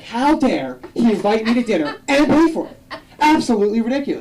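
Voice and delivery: high, quick indignant mom; hammed-up mom fuming about dinner; mock outrage. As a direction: act the offended mother. Mom outraged at uncle paying.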